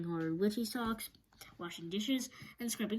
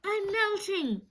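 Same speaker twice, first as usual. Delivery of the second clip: high, slow, loud wailing witch; witch's wail; 12 semitones higher, 6 dB louder, much slower than usual. Acted. The Wicked Witch, drenched with water, wails high and slow. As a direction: stretch it into a dying witch's wail. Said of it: "wailed the Wicked Witch".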